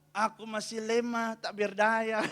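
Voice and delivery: mock-feeble, drawn-out complaint; meniru keluhan lemah. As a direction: imitate a helpless churchgoer, dragging the words. Ibu yang sama mengeluh lagi. (keluhan lemah yang dibuat-buat)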